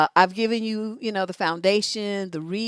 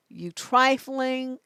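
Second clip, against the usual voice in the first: acted scolding; 6 semitones higher, much slower than usual. Acted angry call to an ex.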